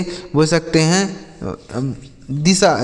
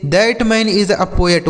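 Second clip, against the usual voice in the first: slow example reading; 2 semitones higher, much slower than usual. Shown as a demonstration. Teacher reads example sentence slowly.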